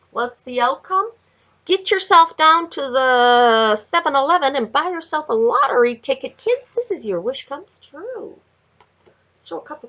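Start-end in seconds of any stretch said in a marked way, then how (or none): 1.6-6.4 loud, high lottery pitch; a hyped, loud call to the store; excited urging. Acted. Urging viewers to buy lottery. 6.4-8.4 gleeful announcement. Acted. Announcing a wish card.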